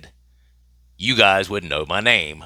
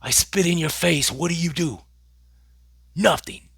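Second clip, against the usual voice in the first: much higher, mock-proud taunting voice; Conor McGregor, proudly declaring; 10 semitones higher than usual. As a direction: put on a high voice for a boastful quote. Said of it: "McGregor then proudly declares".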